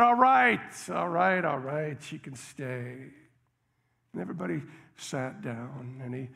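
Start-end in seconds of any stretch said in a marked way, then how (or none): 0.0-3.1 giving in. Retold or imitated. Cook gives in.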